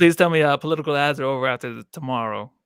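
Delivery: put-on shaky go at a Cajun accent; Cajun accent attempt. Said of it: "see if I can do this accent".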